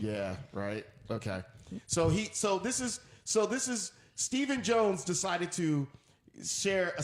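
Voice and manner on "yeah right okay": very low, deep-voiced agreement; playful bass-register voice; a soul singer thing. Shown as a demonstration. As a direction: keep it down in the deep crooner register. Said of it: "it's the soul singer thing".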